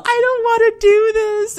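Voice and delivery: loud, high, drawn-out protest; hammed-up wail of refusal; reenacted yell. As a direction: yell it slowly across at your friend. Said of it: "I look at her and I yell".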